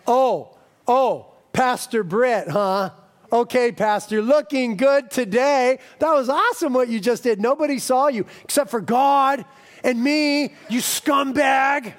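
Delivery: lightly voiced sarcastic Satan; Satan mocking. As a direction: tease him like a smug devil. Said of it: "Satan loves to come in with his mocking".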